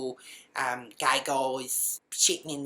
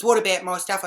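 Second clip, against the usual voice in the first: raised, louder plaintive question; whining protest; 4 semitones higher, 7 dB louder than usual. Retold or imitated. Evicted housemate asking after belongings, whining protest. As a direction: ask it as the wronged party.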